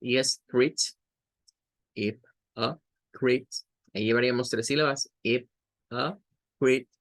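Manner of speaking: crit as the stressed syllable. Shown as a demonstration. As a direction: lean on crit. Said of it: "esta es la sílaba tónica".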